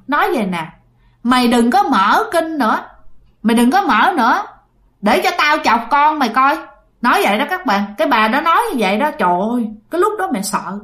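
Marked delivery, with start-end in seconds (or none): 1.2-6.6 ghost woman's taunt. Retold or imitated. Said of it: "nghe là cái giọng đàn bà".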